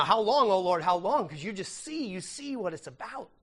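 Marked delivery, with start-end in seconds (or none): 0.0-1.3 crying out. Acted. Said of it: "crying out now".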